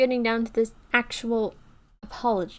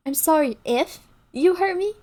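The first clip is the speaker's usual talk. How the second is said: mock apology; 5 semitones higher, 5 dB louder than usual. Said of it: "that is so insincere".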